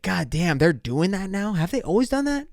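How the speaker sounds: high, climbing disbelief; retold astonishment, pitch rising to the end; incredulous. Driver reacting to cops checking cars, incredulous.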